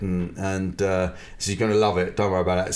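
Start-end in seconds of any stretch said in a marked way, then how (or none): 1.6-2.7 lightly put-on quick patter; a hint of someone else's way of talking; imitated speech manner. Promoter pitching a gig to his comedian, lightly imitated speech manner. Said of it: "that's how he spoke".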